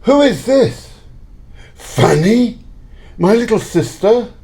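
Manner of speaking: stunned, recognising someone long lost; astonished. Acted. Scrooge sees his sister's ghost.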